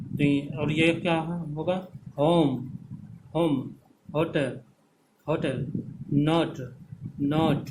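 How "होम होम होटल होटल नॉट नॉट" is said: होम, होटल, नॉट each said apart with an "ou" glide; careful, separated होम, होटल, नॉट, "o" sliding to "oo"; model pronunciation. Shown as a demonstration. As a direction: sound out the vowel in होम, होटल, नॉट for students. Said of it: "तो इस तरह से पढ़ेंगे".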